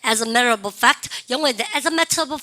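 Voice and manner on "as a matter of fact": slow drill phrase. Shown as a demonstration. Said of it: "As a matter, 시작".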